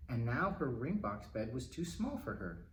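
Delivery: plain reading voice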